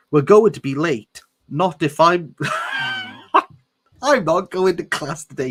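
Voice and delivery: mock bellow; hammed-up shout. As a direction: shout it while breaking into laughter. Reading Edward, laughing.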